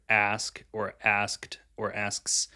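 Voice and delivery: slow list, "asked" and "asks" with each ending sounded; word forms shown. Shown as a demonstration. Friend listing tricky words, endings shown slowly. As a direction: space out "ask", "asked", "asks" as examples. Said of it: "kinda say it fast".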